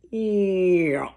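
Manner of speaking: long falling vocal swoop; imitated shutting-down sound. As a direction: mimic a cone swooping shut with a drawn-out falling noise. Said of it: "It just went".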